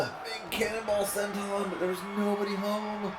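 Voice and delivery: high shout, staying high through the call; excited shout. Real, not acted. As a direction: yell the missed dive like a hype announcer. Big dive misses its target.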